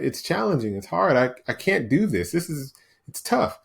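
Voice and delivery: lightly mimicked whine; a touch of whining, as a reluctant inner voice; whiny. Inner voice complaining that exercise is hard, lightly whiny. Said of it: "that whiny voice that I always talk about".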